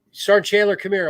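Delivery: calling over. Retold or imitated. Commander calling a sergeant over.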